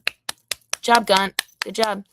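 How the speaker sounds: job stretched out high and loud in scorn; sarcastic high-pitched Good job; mocking praise. Shown as a demonstration.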